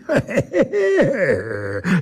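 high mocking chuckle; odd angel laughing at him; creature's laugh. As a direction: cackle at the threat. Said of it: "Smál se ten chlap".

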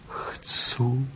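whispered meek yes; humble whisper. A narrator's reading. Vixen answers the fox's proposal in a humble whisper. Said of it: "odvětila pokorně".

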